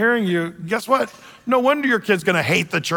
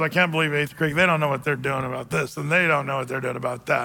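mock complaining; 5 semitones lower, 4 dB quieter, faster than usual. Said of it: "when you're with your friends".

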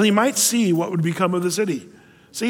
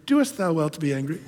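teasing wife; 4 dB quieter than usual. Pretend. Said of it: "wife, if you just said to your husband".

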